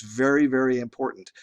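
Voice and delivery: very, very pressed hard and falling; stress on very. Real, not acted. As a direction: lean on each very. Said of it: "I wanna reemphasize this".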